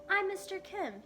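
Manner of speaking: high, lightly voiced friendly man; friendly shopkeeper. A narrator's reading. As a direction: greet her warmly.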